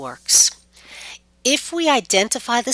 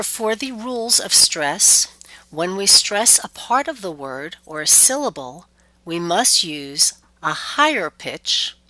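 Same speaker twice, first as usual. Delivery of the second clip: whispering. Real, not acted.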